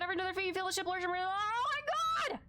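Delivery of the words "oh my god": high startled oh my god; shocked cry. Real, not acted. Streamer startled by the attack, high shocked cry. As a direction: yelp it out in alarm. Ship lurches, reacts.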